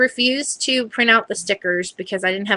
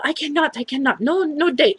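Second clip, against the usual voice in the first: lightly mimicked higher-pitched refusal; a hint of her flustered protest, higher; imitated lab technician; 6 semitones higher than usual. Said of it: "Middle Eastern gal".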